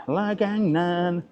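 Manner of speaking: "La Gang Nan" drawn out very slowly, each syllable spaced; slow careful naming. Shown as a demonstration.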